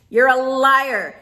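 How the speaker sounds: slow down and hit it harder. Real, not acted. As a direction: drag out You're a liar with force.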